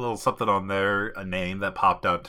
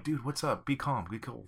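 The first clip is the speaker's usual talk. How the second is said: high, soft mock voice of a pony; lightly hushed, raised voice urging calm; Bill the Pony; 4 semitones higher, 9 dB quieter than usual. Pony soothing his freaked-out friend, high soft mock voice. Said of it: "And Bill's like".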